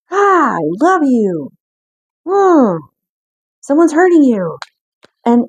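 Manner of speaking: a loving parent who can't fix the hurt, pleading; protective anger. Acted. Parent cries out to hurting child, high and loud. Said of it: "That's the anger".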